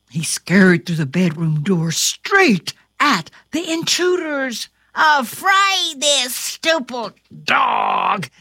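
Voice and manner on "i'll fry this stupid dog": burglar voice. Acted. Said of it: "cried the shorter burglar".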